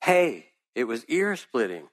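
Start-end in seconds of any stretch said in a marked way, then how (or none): 0.0-0.5 put-on old man's lilting, delighted shout; joyous shout. A narrator's reading. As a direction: call out like you found a treasure. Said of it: "someone shouted".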